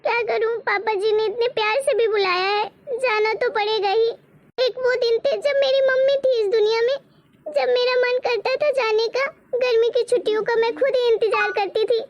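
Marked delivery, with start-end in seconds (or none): 0.6-6.3 tearful. Acted. Daughter tearfully missing her mother.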